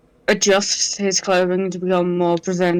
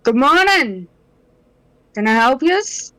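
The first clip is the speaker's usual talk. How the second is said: raised, higher-pitched call; shouting over; 6 semitones higher, 3 dB louder than usual. Acted. Player's character greets approaching men, shouting over. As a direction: call out a greeting across to them. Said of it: "he shouts over to them".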